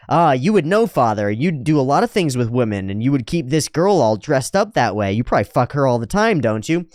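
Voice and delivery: mock taunting. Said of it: "that same speech pattern that Rudius goes into".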